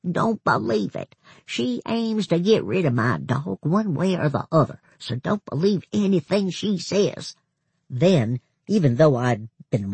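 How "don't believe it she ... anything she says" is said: rasping secretive whisper; hoarse whisper. A narrator's reading. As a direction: keep it a hoarse warning whisper. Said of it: "he said in a hoarse whisper".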